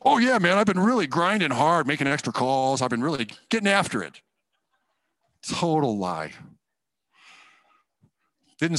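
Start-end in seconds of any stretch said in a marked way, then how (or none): 0.0-4.2 boastful. Retold or imitated. To the boss after a promotion, lightly cocky bragging. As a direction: puff yourself up, mock arrogant. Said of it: "prideful, arrogant stuff".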